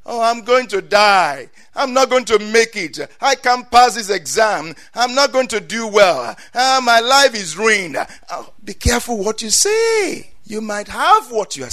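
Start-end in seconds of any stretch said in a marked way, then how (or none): 0.1-8.0 lightly mocked self-pity, a bit higher; mock despair. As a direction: sigh it like a student who gives up. Imitates despairing believers.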